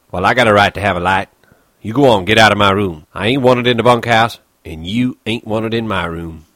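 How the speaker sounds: bitter stable hand shooing off an intruder; Crooks, angry. Acted. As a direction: snap him out of the room. Crooks ordering Lenny out.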